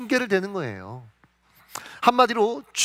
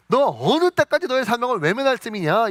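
mildly angry rebuke, pitched up; angry God; 4 semitones higher, 3 dB louder than usual. Retold or imitated. God rebukes Moses for refusing his mission, mildly angry. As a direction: scold indignantly, as a preacher voicing God. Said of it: "이러면서 막 화를 내시는데".

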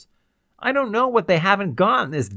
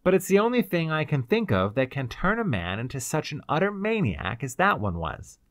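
higher-pitched bitter outpouring; bitter explanation; 6 semitones higher than usual. A narrator's reading. Ryder explains their predicament to the girl, bitterly. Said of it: "he explained to her bitterly".

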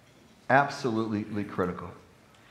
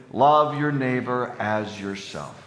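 slow, deliberate call-and-response line; slow recitation; 4 dB louder, slower than usual. Shown as a demonstration. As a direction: lead the congregation, word by word. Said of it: "Say it with me".

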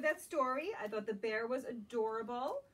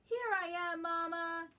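higher, bright little cub voice; Baby Bear; 5 semitones higher than usual. Acted. Baby Bear revealing his hiding spot to Mama, higher playful. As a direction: pop out cheerfully from hiding. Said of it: "says Baby Bear".

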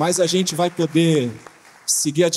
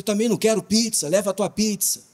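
retold raised voice; 5 semitones higher than usual. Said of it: "eu levantava a voz".

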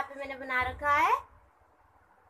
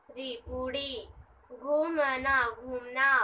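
slow revision; 2 semitones lower, slower than usual. Shown as a demonstration. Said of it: "revise कर लेते हैं".

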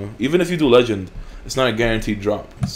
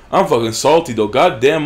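salty; 3 semitones higher, 6 dB louder than usual. Real, not acted. Salty about being robbed.

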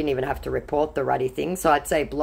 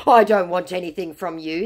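scammer's voice; 3 semitones higher, 4 dB louder than usual. Retold or imitated. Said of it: "he said".

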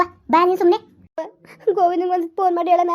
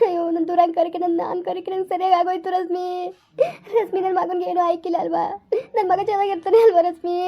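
tearful. Acted. Mother cries over her son.

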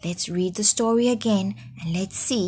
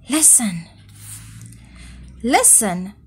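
moaning; 4 dB quieter than usual. Acted. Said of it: "moaned Goat".

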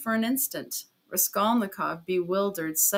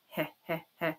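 sly chuckle; 3 semitones lower, 7 dB quieter, faster than usual. A narrator's reading. Porfiry's written sly laugh.

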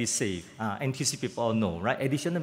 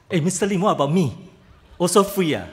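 put-on elderly resident voice; 3 semitones higher, 6 dB louder, faster than usual. Seventy-year-olds voiced asking.

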